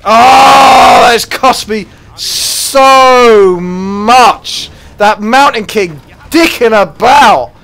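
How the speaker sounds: loud, slow, high furious rant; raging. Real, not acted. Gamer ranting at the loss, loud and slow. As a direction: drag every word out in fury. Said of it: "There's some fucking rage".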